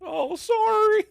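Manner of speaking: high, slow giggly sorry; laughing apology. Pretend.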